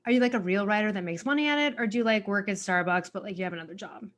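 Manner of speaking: imitating a patronizing stranger; a touch of condescension in the question. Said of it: "Very patronizing, said like that".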